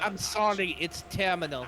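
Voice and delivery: a weak Slavic accent attempt; bad Slavic accent. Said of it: "I'm trying to speak with bad Slavic accent".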